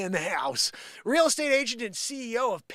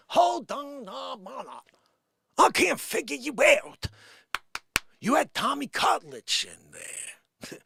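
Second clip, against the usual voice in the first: put-on slow, higher Bronx accent; Bronx accent disbelief; 5 semitones higher, slower than usual. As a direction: drag it out like a baffled Bronx fan. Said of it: "speaking of Bronx accents".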